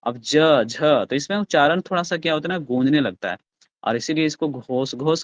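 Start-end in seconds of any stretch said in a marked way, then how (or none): 0.2-0.8 ज and झ sounded out one by one; ज और झ को अलग अलग साफ़ बोलना; sounding out letters. Shown as a demonstration. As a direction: say ज, then झ, clearly apart. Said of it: "तो बोल के देखिए ना".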